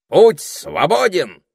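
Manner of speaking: high, loud, slow proclamation; announcing. A narrator's reading. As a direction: call it out like a lookout. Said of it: "объявил он".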